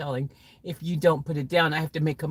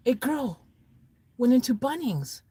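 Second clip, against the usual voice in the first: high, questioning repeat of the answer; baffled echo; 6 semitones higher than usual. Acted.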